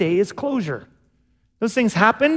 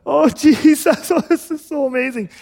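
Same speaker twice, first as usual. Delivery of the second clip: joyful blubbering; 7 semitones higher, 5 dB louder than usual. Retold or imitated. Believers meeting Jesus in heaven, laughing and blubbering with joy. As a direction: overcome with joy, gushing to Jesus. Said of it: "a whole bunch of us".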